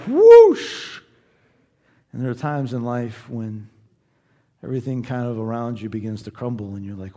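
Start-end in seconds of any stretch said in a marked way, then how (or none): 0.1-1.0 very high, loud plunging whoosh; shouted coaster drop. Retold or imitated. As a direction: throw the voice down the drop.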